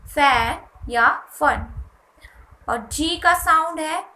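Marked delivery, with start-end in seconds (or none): 0.1-1.7 slow example words. Shown as a demonstration. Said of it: "फ के रूप में".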